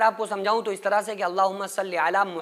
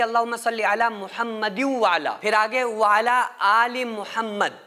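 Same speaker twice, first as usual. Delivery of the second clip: मुहम्मदिन व अला linked in one breath; joined reading. Shown as a demonstration. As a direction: carry on without pausing. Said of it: "एक सांस में पढ़ रहे हैं". (एक सांस में मिलाकर)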